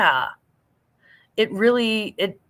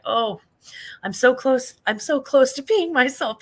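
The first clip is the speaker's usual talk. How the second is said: higher-pitched, acted bathroom panic; mock urgency; 6 semitones higher, 4 dB louder than usual. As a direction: play desperate to reach the toilet in time. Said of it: "being like".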